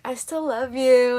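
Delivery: slow, drawn-out mock love confession; drawn-out plea. Mock caller to the speaker on the phone, drawn-out plea. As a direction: stretch it out at normal volume. Acting out a clingy ex's call.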